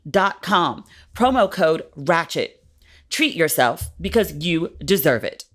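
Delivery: upbeat sponsor read. Acted. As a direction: read it like a radio ad.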